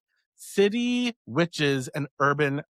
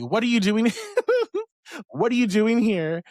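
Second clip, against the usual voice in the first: imitating friend; 8 semitones higher, 4 dB louder than usual. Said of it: "very direct".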